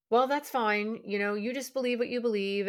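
"Well" leaned on as if being patient but isn't; fake-neutral brush-off. Mom to teenage son over politics, dismissive fake calm. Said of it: "with that sort of energy".

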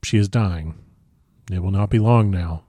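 calm, understated gravity; a touch of composed solemnity. A narrator's reading. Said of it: "said calmly".

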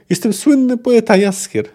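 Jaskier puffing himself up. A narrator's reading. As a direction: announce yourself with pompous pride. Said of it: "nadął się Bart".

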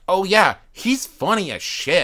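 high, emphatic burst of remembering; surprised rediscovery. Retold or imitated. Fan remembering how funny the comedian is, surprised. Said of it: "in surprise, 'cause, like, you forget".

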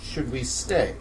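small quiet question; timid. Acted. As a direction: ask it quietly, unsure. Timid character asks.

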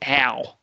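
imitating the Philadelphia vowel in "ow". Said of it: "kind of sound that you make".

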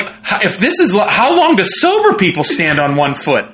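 laughing through a cheeky question; laughing, cheeky question to the cop. Retold or imitated. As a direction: ask it while laughing. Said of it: "I'm like".

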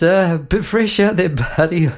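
high, loud cheeky mate greeting; cheery truckie voice. Retold or imitated. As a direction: play the amused driver calling out. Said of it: "We ran down the window and said".

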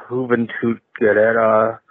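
put-on rolled Mexican Spanish accent on the name. Caller reading wrestler names, slips into Mexican Spanish accent. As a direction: say Juventud Guerrera with a light Mexican Spanish flair. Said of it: "I don't know why I did the accent there".

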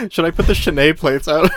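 laughing lead-in, Chenet rhyming with "away"; mispronounced as French. Retold or imitated. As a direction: imitate the aunt offering Chenet with a silent T. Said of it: "pronouncing it like that is so funny".

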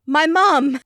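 high mock cry of alarm; imitated frantic yell. Imitating a frantic baker yelling out, mock yell. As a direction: yelp it as if in a flap. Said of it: "she yells out".

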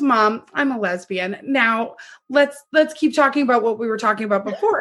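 offhand retold announcement; super casual. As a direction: toss it out in an everyday voice, no fuss. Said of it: "just super casually".

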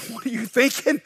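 high-pitched exasperated coach; mock-exasperated telling-off; acted scolding. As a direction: demand an answer from a player. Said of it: "I start yelling at him".

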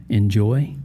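"enjoy" said ironically, with a questioning rise; sarcastic "enjoy", as if in air quotes. Shown as a demonstration. Preacher mocking a lonely universe, "enjoy" in sarcastic air quotes. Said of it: "I'll have to put air quotes around the word".

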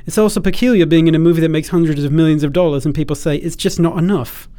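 lightly put-on British voice; mock British accent, conversational; generic British accent. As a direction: play the actor in stock British. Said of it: "do the generic British accent number one".

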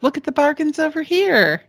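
mock vendor calling to passing women; street vendor. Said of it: "you might be walking down the street".

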